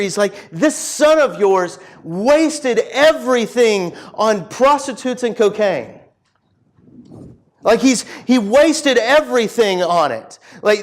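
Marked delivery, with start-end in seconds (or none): 0.5-6.0 slow, emphatic mock outrage; retold anger. Older son accusing his father, acted indignation. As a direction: hammer out the accusation, drawing out words. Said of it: "the older son is just angry".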